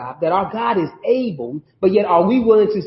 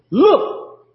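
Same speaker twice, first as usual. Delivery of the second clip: mild shout; 6 semitones higher than usual. A narrator's reading. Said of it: "Nebuchadnezzar shouted".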